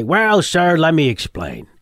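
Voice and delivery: lightly voiced, rambling Columbo explaining himself; a hint of the shuffling detective pleading for an autograph; Columbo impression. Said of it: "my Columbo goes up an octave and is horrible".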